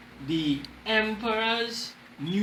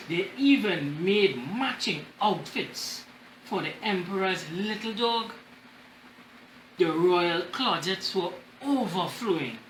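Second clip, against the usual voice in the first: story reading. Acted. Reads storybook to class.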